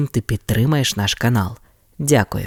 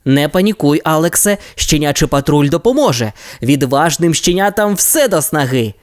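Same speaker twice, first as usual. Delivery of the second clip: calming; 4 semitones higher than usual. Acted. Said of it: "заспокоїв Райдер".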